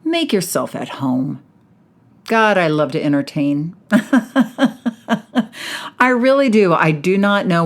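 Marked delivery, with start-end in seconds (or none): 0.0-1.4 party hostess welcome. Acted. Hostess greeting podcast listeners as party guests, high and bubbly. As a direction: throw the door open for your guests.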